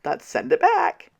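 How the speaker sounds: mocking lazy drivers. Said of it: "They will see the gates and go".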